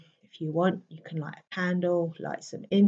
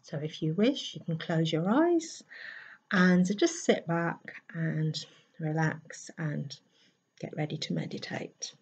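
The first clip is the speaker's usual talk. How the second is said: soft, unhurried meditation voice; guided meditation; 4 dB quieter than usual. Acted. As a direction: ease them gently into relaxing, trailing softer. Settles listeners for meditation.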